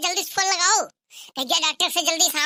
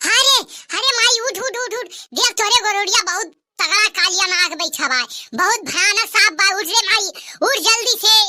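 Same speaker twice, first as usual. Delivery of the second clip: calling out. Acted. Waking mother, snake nearby. (ज़ोर से पुकारना)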